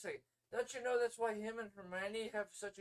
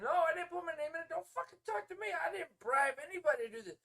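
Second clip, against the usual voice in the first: higher, heated denial; angry Harry; 9 semitones higher, 5 dB louder than usual. Retold or imitated. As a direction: protest it hotly, voice pitched up. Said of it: "he's explaining".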